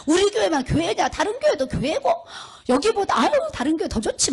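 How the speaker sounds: high-pitched, offhand grumbling; lightly mocking imitation; mock dismissive churchgoer. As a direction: imitate a fickle member shrugging off loyalty. Mimicking fickle church members.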